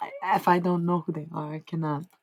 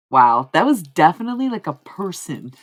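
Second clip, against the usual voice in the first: surprised exclamation; 12 dB louder than usual. Real, not acted. Surprised at own accent switch.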